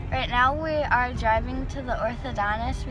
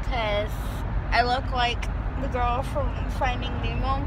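lips held apart by bow; slightly slurred orthodontic speech; talking around metal wire; 3 semitones higher, 5 dB louder than usual. Real, not acted. Seen 1: Metal headgear bow sits between lips throughout; absent before and in R frames.

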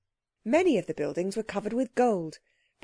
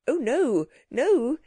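higher, louder pleading protest; fervent pleading; 6 semitones higher, 4 dB louder, slower than usual. A narrator's reading. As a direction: beg urgently, voice raised. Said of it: "he pleaded fervently".

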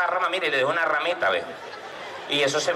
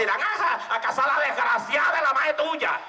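mild mock retort; 8 semitones higher than usual. Rosa snaps back at drunk.

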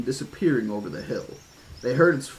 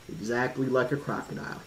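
unhappy thought; 5 dB quieter than usual. A narrator's reading. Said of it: "he thought unhappily".

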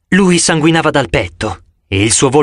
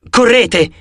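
higher shouted order; 8 semitones higher than usual. A narrator's reading. Dr. Chase shouting to the kids to run. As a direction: yell it from the passing plane. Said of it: "gridò lui di rimando".

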